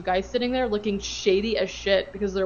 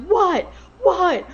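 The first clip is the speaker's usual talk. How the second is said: higher, louder mock shout; imitated yelling; 9 semitones higher, 6 dB louder, slower than usual. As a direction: bark the whats at her, half-joking. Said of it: "yelling at the top of his lungs".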